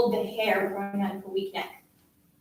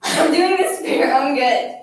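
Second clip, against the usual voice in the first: loud, raised self-justifying protest; insistent scolding; 3 semitones higher, 8 dB louder than usual. A narrator's reading. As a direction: insist forcefully to the child. Bully justifies herself while crying.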